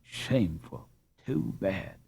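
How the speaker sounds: soft, sweet echo of an indignant word; sweetly mimicking an angry girl. A narrator's reading. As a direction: echo it sweetly, like tinkling bells. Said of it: "heard her sweetly echo".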